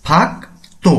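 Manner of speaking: ফাক্তো in two separated syllables, hard t; teacher's model of ফাক্তো with t, not d; t for digut. Shown as a demonstration. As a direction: say ফাক্তো slowly split, tense t on the second. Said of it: "উচ্চারণটি হবে".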